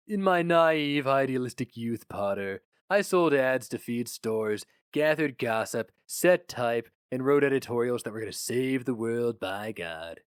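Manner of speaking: lightly voiced gruff newspaper boss; a hint of a jaded editor reminiscing; boss Flammer. Flammer recalls his youth.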